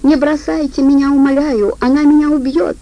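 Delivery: plea breaking into panic; panicked pleading. Acted. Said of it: "умоляюще попискивая". (паническая мольба, выше и громче)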